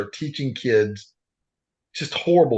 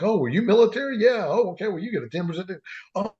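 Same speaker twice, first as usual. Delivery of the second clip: high, chirpy mock cashier; mimicking an overeager clerk at checkout; 8 semitones higher, faster than usual. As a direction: play the cheerful store clerk, pitched way up. Cashier voiced in a retold story.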